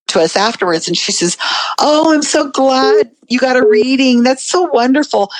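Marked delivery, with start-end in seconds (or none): 1.8-5.3 gushing congratulations. Retold or imitated. Gushing fellow audience member, retold.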